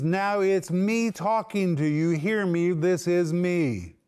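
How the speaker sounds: solemn, emphatic Jesus slowing down on the last words; Jesus elevating his voice. Acted. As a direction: lift the voice and claim the listeners' attention. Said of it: "Jesus is now elevating his voice".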